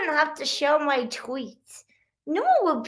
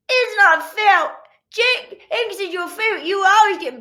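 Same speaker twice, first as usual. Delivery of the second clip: put-on complaining kids; 8 semitones higher, 6 dB louder than usual.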